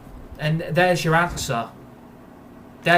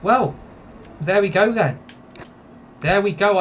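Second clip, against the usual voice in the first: raised, bitter there we go; loud, fed-up sarcasm; sarcastic there we go; 5 semitones higher, 4 dB louder than usual. Real, not acted. Streamer sees the game fail him again, bitter and raised.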